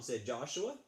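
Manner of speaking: put-on lively read-aloud for children; storybook reading. Teacher reading a story to fifth graders, lively read-aloud. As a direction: read the tale to the class.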